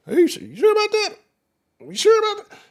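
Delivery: very high-pitched sceptical question; mock doubt. Sports host questioning a lineman's claim, high mock doubt. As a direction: squeak out the doubt in a high put-on voice.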